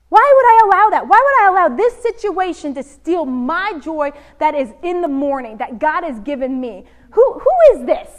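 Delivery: rising indignant rant to himself; indignant outburst. Retold or imitated. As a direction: demand to know who this driver is to control you. Indignant inner monologue in traffic.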